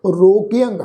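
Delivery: ਰੋਗਿਅੰਗ with a nasal ending; nasal pronunciation. Shown as a demonstration. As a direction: close ਰੋਗਿਅੰਗ on nasal -ang. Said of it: "ਟਿੱਪੀ ਨਾਸਕ ਉਚਾਰਨ".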